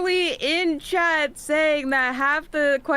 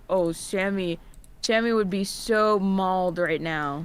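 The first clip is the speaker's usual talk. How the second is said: mocking quote; 7 semitones lower than usual. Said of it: "and you're like".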